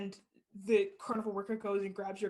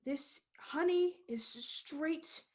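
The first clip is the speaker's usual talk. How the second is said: showman; 2 semitones higher, slower than usual. Acted. Showman addresses the crowd.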